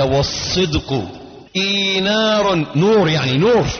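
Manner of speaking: slow, drawn-out reading; solemn quotation. Acted. Preacher quoting Ibn al-Jawzi to listeners, slow solemn intoning. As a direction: intone the saying with weight.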